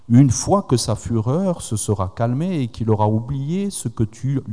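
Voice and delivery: reading the Bible passage aloud, measured; scripture reading. Acted. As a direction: read the verses to the congregation. Lecture de la Bible. (lecture solennelle des Écritures)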